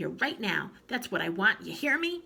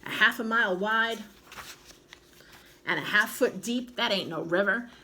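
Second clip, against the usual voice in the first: put-on louder, scornful old woman; scornful snort; 3 semitones higher, 5 dB louder than usual. A narrator's reading. Grandma scorning Trouble River, louder. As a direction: sneer at the river. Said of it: "she snorted".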